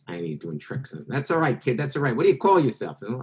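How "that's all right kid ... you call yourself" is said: lightly voiced carnival boss, a bit higher; a hint of a carnival showman sizing up a kid. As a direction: magician retelling Max's story in a mildly put-on carnival boss voice. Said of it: "in his accent, tells me the story".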